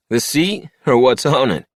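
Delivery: high, loud mocking drunk; drunk cowboy. A narrator's reading. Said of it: "one of the drunks asked".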